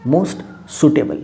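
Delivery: very slow, each word held; slow, careful teacher's delivery; slow dictation. Shown as a demonstration. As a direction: dictate it slowly to the class. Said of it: "superlative form में ये बनेगा".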